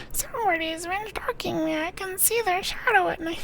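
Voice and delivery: lightly imitating a nervous old lady; a hint of a frightened old woman.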